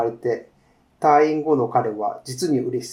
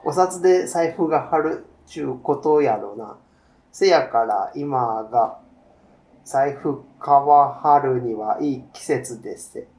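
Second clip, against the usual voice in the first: a shopkeeper lightly voiced in a Kansai accent; easy Kansai shop talk, lightly voiced; Kansai dialect. The shopkeeper talks with a customer, a light Kansai accent. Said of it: "関西弁ですね".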